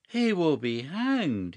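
loud, slow, certain outcry; exclaimed with conviction. A narrator's reading. Huddle warns Clovis of the bishop's fate, loud and slow. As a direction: declare it as a sure fact. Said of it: "he exclaimed with conviction".

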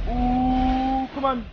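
high, nervous cooing; thin it up high as a shiver runs through; jittery, high-pitched dread; chills. Real, not acted. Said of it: "I got the chills".

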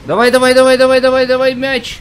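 loud, high "come on" chant; excited urging. Real, not acted. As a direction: push the team on, shouting. Urging team toward goal.

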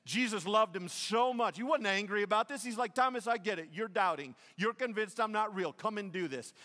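loud, high preacher's voice; fervent preaching. Acted. Preaching Jesus's tender words.

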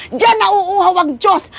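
slow, voice breaking with tears; tearful. Real, not acted. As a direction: let the sorrow catch in the throat. Preacher moved, cry heard. (mabagal, naiiyak na pagsasalita)

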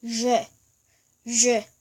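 죄 with the tongue drawn back and a buzzing onset; 죄 as a buzzed foreign sound, unlike ordinary Korean 죄; tongue pulled back. Shown as a demonstration. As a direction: demonstrate 죄 with the tongue retracted, one at a time. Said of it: "이렇게 소리 내면 되고요".

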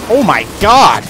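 surprised. Real, not acted. Surprise in game fight.

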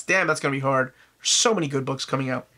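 congested, tired voice; groggy and congested. Real, not acted. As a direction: speak through a stuffed-up nose. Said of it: "apologies for my voice. Um, feeling really groggy and tired and just, whew, congestion".

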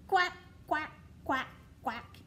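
quacking like a duck; a playful duck voice. Pretend. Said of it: "That is what they say".

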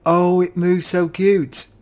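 slow, high, loud gush of delight. Real, not acted. Player gushing over baby sea lion in game, slow and high.

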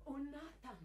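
excited call. Acted. Daja ruft aufgeregt Nathan.

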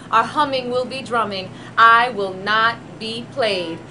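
slow, forceful poetry recital; spoken word poem. Acted. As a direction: declaim it slowly, like a protest. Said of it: "I'm gonna read you a poem".

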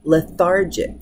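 lethargic with the stress on THAR, the second-to-last syllable; stress on the penultimate. Shown as a demonstration. Teacher repeating lethargic stressed on THAR. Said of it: "the penultimate".

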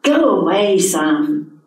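exploding. Acted. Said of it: "she exploded".

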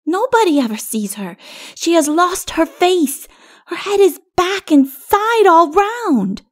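put-on very high child voice, slowing for emphasis; little child insisting. A narrator's reading. Little one describing Catwoman to king, earnest child.

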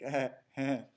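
awkward little laugh; nervous laugh. Retold or imitated. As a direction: laugh it off uneasily. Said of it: "And he kind of laughed".

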